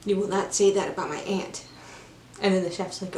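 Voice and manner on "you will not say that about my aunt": firm but not threatening; measured, lightly imitated sternness; stern. Paddington defending his aunt to the chef, stern. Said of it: "very stern".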